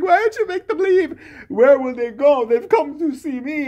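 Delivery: high, airy voice of a dazed wife; mock dreamy wife. Comedian mocking the heroine's dreamy reply, high and airy.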